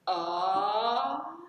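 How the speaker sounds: ah with an audible register break; bad example with a voice break; unwanted break. Shown as a demonstration. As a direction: let the voice crack on purpose. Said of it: "We don't want that".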